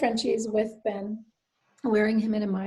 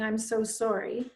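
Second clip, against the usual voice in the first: pitying condolence; 3 dB quieter, slower than usual. Shown as a demonstration. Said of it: "interesting distinction between".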